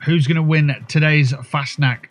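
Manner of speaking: lightly posh festival race commentator; a touch of posh, showy announcing. Pretend. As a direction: announce the parade in a mildly posh voice. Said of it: "just saying it in a posh voice".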